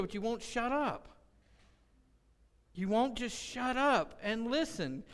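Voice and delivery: mock telling-off, punching the key words; retold exasperation. Dad to his kid who won't listen, retold exasperated scolding. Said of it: "I used to get so mad at Seth".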